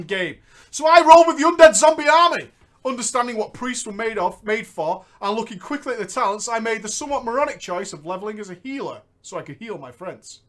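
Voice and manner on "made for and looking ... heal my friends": usual speaking voice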